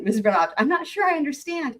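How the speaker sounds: a lifted, puzzled judge's voice; mock bewildered judge; Elaine voice. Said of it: "my Elaine voice".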